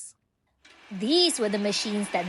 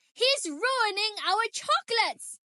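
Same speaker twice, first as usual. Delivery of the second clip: higher, indignant order to throw him out; angry yell; 10 semitones higher than usual. A narrator's reading. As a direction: scold like an outraged guide. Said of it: "she yelled".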